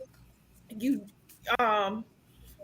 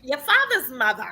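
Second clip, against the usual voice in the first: put-on Boston accent; 3 semitones higher than usual. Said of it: "I love Miss Susan's accent".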